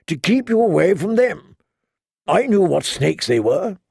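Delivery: lightly voiced knight, hurt and insistent; a hint of a wounded knight pleading his case; Jorah, pleading.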